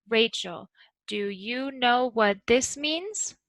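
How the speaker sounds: slow, rising steadily through the question; gradual rise. Shown as a demonstration. Teacher modelling a yes or no question, slow gradual rise. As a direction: climb gradually all the way to means. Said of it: "So let's go very slowly".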